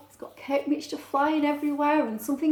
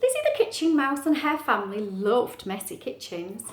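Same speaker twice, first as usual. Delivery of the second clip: measured picture-book reading; story narration; 3 dB louder than usual. Acted. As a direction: read it clearly to young listeners. Reads story aloud.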